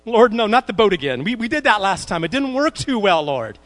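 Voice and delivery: whiny reluctance. Retold or imitated. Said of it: "It's like".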